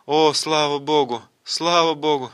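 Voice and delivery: acted cry of relief; relieved exclamation. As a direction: exclaim it for a whole crowd, drawing out the first cry.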